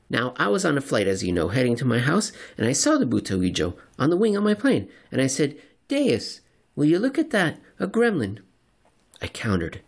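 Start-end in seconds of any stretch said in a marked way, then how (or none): 0.1-5.6 fast, eager conspiracy talk; rambling crank. Acted. Seatmate character voiced. 5.9-8.4 much higher, wide-eyed amazement; astonished gasp. Retold or imitated. Crank retells seeing gremlin.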